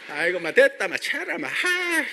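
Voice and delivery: hammed-up southern Korean dialect. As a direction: toss off southern dialect interjections with gusto. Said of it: "막 팍팍 감정이 전해지잖아".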